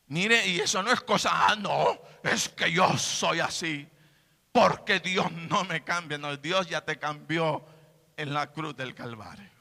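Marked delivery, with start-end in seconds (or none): 1.5-6.2 mock excuse. Mocks excuse of unchanged believer.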